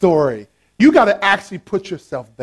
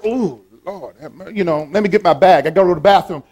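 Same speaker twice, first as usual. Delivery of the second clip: lightly hammed-up reluctant churchgoer; acting out grudging reluctance; mock reluctant. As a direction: groan out an "Ooh", then make excuses. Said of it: "That's reluctantly".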